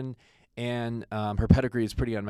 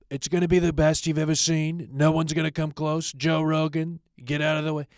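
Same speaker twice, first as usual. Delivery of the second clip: mock braggadocio; 5 semitones higher, 5 dB louder than usual. Mock boast about podcast success.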